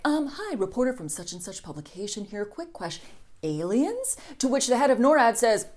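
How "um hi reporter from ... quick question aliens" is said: timid reporter question. Retold or imitated. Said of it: "people are like".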